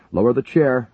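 high, loud command. A narrator's reading. Major commanding the paramedic, loud and high. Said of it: "Buchanan commanded".

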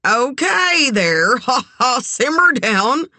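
high, nervous laugh mid-line; uneasy, drawn-out backpedaling. A narrator's reading. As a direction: placate her with pitch jumping up. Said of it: "he said nervously".

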